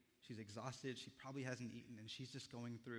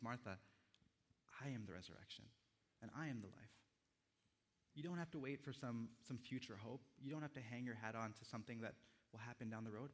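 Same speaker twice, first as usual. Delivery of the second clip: tender reassurance. Acted. Jesus's words voiced tenderly.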